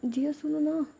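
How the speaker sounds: anxious pleading call for her friend; scared call. Acted. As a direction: call out for help, nervous and rising. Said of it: "Ruhi है ना थोड़ा सा डर जाती है".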